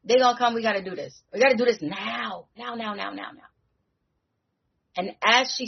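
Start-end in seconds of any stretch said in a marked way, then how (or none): 0.0-3.5 higher, pressing everyone to hurry; urgent. Retold or imitated. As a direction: insist there is no time left. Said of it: "He's like".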